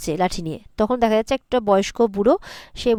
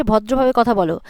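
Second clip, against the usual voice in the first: louder, mildly stern retold command; stern reprimand; 6 dB louder than usual. Rupa tells Sona to speak politely, retold stern reprimand. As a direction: voice a firm telling-off. Girl scolds rude visitor in quarrel.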